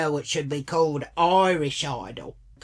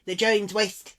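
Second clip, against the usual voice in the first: higher-pitched imitation of a nagging friend; mock whining rant; 5 semitones higher than usual. Friend nagging to go to Jeans West, mock whiny rant. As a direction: mimic her going on and on. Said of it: "she was just like".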